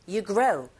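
"you grow" with quick you, stressed grow. Shown as a demonstration. Teacher modelling for students, stress on "grow". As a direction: pass over "you", lean on "grow". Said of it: "여기에 강세 주시고".

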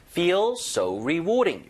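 "rewarding" stressed on its middle syllable, drawn out; slow model phrase, leaning on "rewarding"; marked stress. Shown as a demonstration. Teacher models before the listening drill, stress on "rewarding". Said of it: "강세 여다 주시고".

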